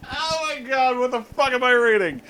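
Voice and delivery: high-pitched incredulous exclaim; laughing disbelief. Real, not acted. Reader reacts to own fan fiction, laughing disbelief. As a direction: still laughing, aghast.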